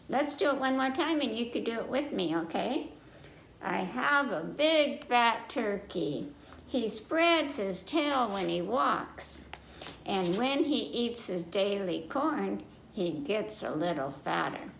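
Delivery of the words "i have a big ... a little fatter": sing-song nursery rhyme reading; children's rhyme. Acted. Reader reciting to young listeners, sing-song rhyme.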